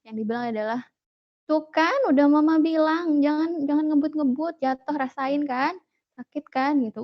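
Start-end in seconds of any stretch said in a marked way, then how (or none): 1.5-6.8 higher-pitched I-told-you-so nagging; mock scolding, pitched up; retold motherly scolding. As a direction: imitate a mother telling off her child. Mother scolding fallen son, retold.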